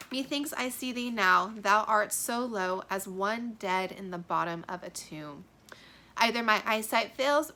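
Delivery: ominous dramatic reading; foreboding Juliet. Acted. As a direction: sense his death coming.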